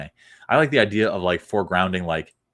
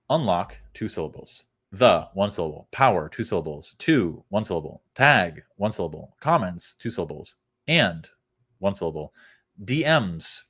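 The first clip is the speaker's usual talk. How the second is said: syllable counting. Shown as a demonstration.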